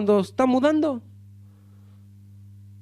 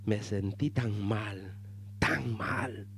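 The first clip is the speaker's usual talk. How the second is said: arrepentimiento triste; 13 semitones lower, 10 dB quieter, much slower than usual. Retold or imitated. Confessing a lie, voice drops.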